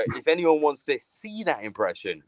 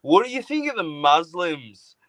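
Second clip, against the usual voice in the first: Melbourne friend's baiting question; 4 semitones higher than usual. Retold or imitated. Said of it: "and he'd go".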